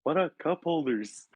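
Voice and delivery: put-on high, slow Mexican-accent question; imitated Mexican accent. Friend voicing the baffled order taker, Mexican accent. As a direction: ask slowly, baffled, in a mock Mexican accent. Accented worker voiced in story.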